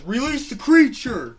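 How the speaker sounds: high, loud command in an African American voice. Acted. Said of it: "like an African American's voice".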